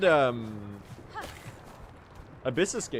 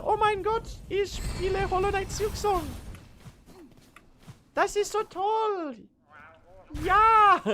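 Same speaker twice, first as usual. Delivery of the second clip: much higher, squeaky mock German gamer thrilled. Streamer shows chat his first German voice, high and thrilled. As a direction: gush excitedly in high fake German. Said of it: "I have two German voices".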